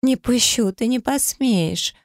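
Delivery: высоко, громко, с надрывом; жена не отпускает мужа, кричит; отчаянный крик. A narrator's reading. (высокий отчаянный крик)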